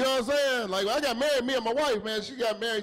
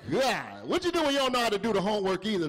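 ordinary delivery

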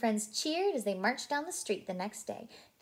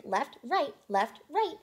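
marching call; 5 semitones higher, 4 dB louder, slower than usual. A narrator's reading. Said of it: "Blue called out to the group".

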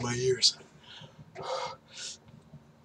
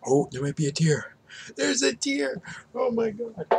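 excited; 13 semitones higher, 4 dB louder than usual. Real, not acted. First tear from hot pepper.

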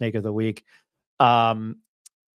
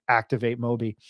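lightly done robot voice. Retold or imitated. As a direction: say it like a monotone robot. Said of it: "a robot voice in my head saying".

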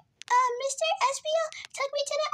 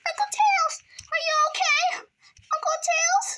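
worried calling out; 4 semitones higher, 3 dB louder than usual. Acted. Finding unconscious uncle.

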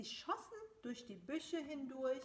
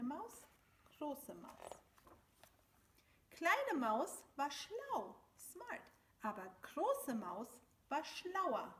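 measured storyteller, leaning on the key words; story narration for children. A narrator's reading. Storyteller reads a German mouse tale to children, animated narration. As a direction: read a picture book aloud, with lively swings in pitch.

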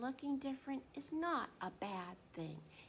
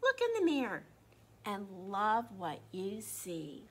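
encouraging mom; 2 semitones lower, 4 dB louder than usual. Acted. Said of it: "she says".

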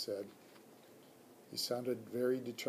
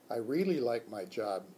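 lower, plain adult man's voice; teacher Mister E; 3 semitones lower than usual. Acted. Teacher answers the hamster, lower man's voice. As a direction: say it as the tired teacher. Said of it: "Mister E said".

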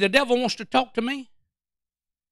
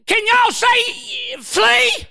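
urging the crowd; 11 semitones higher, much slower than usual. Real, not acted. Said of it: "Say it again".

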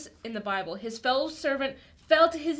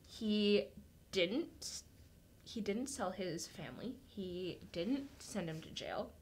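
much softer, slow, drawing out the kind surprise; hushed reveal; 6 semitones lower, 12 dB quieter, slower than usual. Acted. To the kids, revealing the king's mercy in a hush. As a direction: drop to a hush to let the mercy land.

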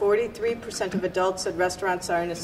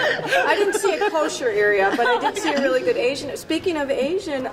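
laughing; 6 semitones higher than usual. Real, not acted. Laughing while joking about Asian area.

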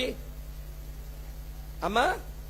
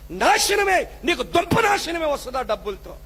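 preacher crying doom over dowry money; loud preaching cry; 3 semitones higher than usual. Real, not acted. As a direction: thunder it as a doom. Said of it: "గట్టిగా చెప్తున్నాను".

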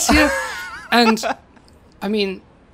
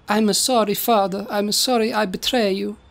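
lightly voiced repentant Italian son; Roberto voice. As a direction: apologise with a hint of Italian accent. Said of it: "Roberto's like".

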